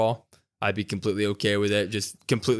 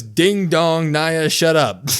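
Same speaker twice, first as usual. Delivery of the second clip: mock taunt; 4 semitones higher, 6 dB louder, much slower than usual. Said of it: "but she goes".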